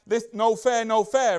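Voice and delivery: mock crying complaint; mock whining. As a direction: whine it like a sulking kid. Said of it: "the dude is literally running crying".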